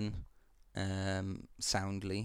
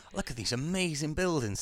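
awed Celt; 7 semitones higher, 3 dB louder than usual. Retold or imitated. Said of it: "they're going".

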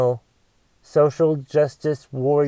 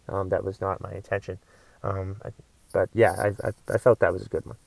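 much lower and softer, small sheepish voice; meek apology; 10 semitones lower, 7 dB quieter than usual. Acted. Comic apologizing after his rant, meek and hushed. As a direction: shrink down and apologize timidly. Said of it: "Why did I just talk like that?".

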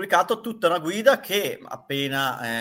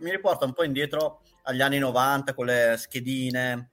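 words round a chewed sweet; chewing candy; 3 semitones lower than usual. Real, not acted. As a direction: keep chewing while talking. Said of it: "scusa se sto masticando la gola d'oro".

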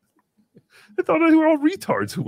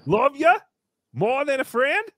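lightly put-on Australian accent, higher; 5 semitones higher than usual. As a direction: do a playful Aussie accent, pitched up. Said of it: "your Australian accent".

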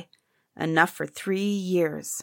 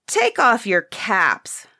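slow, firm, raised command; crying out; 3 semitones higher, slower than usual. Acted. Courtier ordering the princes to remove caps, raised command. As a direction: demand it with offended authority. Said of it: "cried a courtier".

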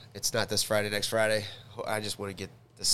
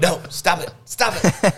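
high, loud whiny protest; whiny baby voice; 9 semitones higher, 9 dB louder than usual. Pretend. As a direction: squeal it like a cranky toddler. Voices Baby Yoda at the controls.

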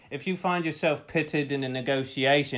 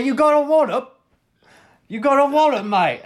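very high, loud hammed-up cheer; hammed-up high-pitched victory shout; mock celebratory yell; 11 semitones higher, 6 dB louder than usual. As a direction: crow it loudly at a workmate. Acting out a sale celebration.

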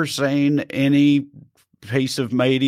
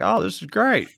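lightly mocking, high-pitched approval; put-on delighted reaction; 8 semitones higher than usual. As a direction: imitate pleased agents, pitched up. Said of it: "they, they loved it".

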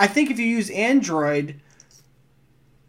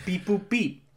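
toy robot voice; 7 dB quieter, slower than usual. Pretend. Mocking the robot pick.

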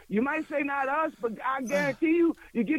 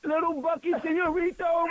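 mock persona; 4 semitones higher than usual. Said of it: "my name is El Bucky Senorito".

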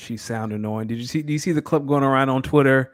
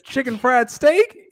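high, slow questioning quote; raised, drawn-out imitation; mimicking her; 11 semitones higher, 4 dB louder, slower than usual. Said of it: "That's how she said it".

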